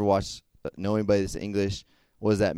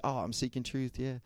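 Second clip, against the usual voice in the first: mock casual claim; 3 semitones higher, 10 dB quieter than usual. Mocking a popular phrase.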